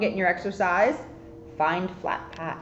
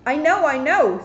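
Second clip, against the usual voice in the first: eager; 6 semitones higher, 5 dB louder than usual. Acted. Kitten eagerly speaks.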